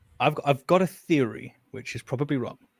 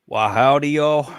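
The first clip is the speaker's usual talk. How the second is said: a hammed-up Texas cowboy howdy, a bit louder; bad Texas accent; 2 semitones higher, 6 dB louder, slower than usual. Brit asked by the stream to try his Texas accent, a deliberately bad Texas accent. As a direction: fake a Texas drawl badly on purpose. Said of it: "I wanna hear his Texas accent".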